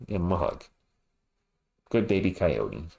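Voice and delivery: put-on low, soft cooing to a baby mascot; tender comforting. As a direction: soothe the little one gently, low and soft. Consoling sad baby Coyote mascot.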